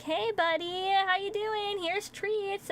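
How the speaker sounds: high, singsong coaxing; coaxing pet talk. Retold or imitated. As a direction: coo to a hiding cat. Coaxing her hiding cat.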